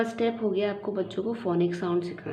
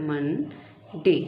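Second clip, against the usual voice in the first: मंडे stretched out very slowly; slow model word for a child; 3 semitones lower, much slower than usual. Shown as a demonstration. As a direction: draw मंडे out, syllable by syllable. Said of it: "इसको two parts में".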